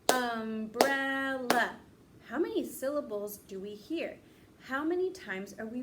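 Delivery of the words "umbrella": umbrella stretched slowly, each syllable clear. Shown as a demonstration. Teacher modelling for the class, slow and syllabic. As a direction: draw out umbrella in beats. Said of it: "Say it with me".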